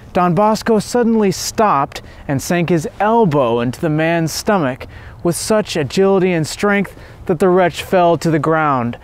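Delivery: plain reading voice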